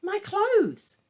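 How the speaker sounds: a chimp parroting Agnes's shock; mimicking cry. A narrator's reading. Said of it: "but instead it cried".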